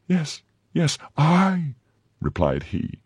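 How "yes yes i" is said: very high, insistent "I"; emphatic retort. A narrator's reading. Captor answers the prisoner's disbelief, high and emphatic.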